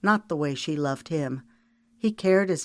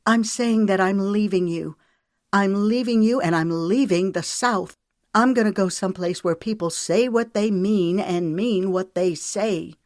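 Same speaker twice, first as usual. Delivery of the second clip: emphatic declaration; 4 semitones higher, 4 dB louder than usual. Acted. Announcing she's leaving him.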